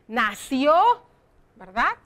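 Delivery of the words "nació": "Nació" with a long, rising "ció"; stress on final ó. Shown as a demonstration. Teacher checking pupils see the accent, "Nació" stressed on a rising ó. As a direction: lift and hold the ó of "Nació". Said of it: "llevan acento".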